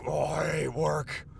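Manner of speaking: slow shouted complaint; frustrated shout. Real, not acted. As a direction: let the frustration burst out. Venting about his job while driving.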